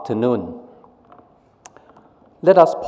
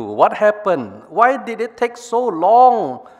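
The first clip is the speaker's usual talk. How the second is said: higher, impatient question; impatient brain two; 8 semitones higher than usual. Acted. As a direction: brain two chiding brain one. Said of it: "Brain two".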